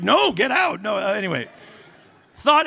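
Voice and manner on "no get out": mock shout. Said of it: "Now I'm just like".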